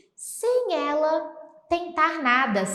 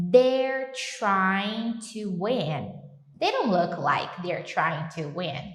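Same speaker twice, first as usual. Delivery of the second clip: slow model phrase; 3 semitones lower, much slower than usual. Shown as a demonstration.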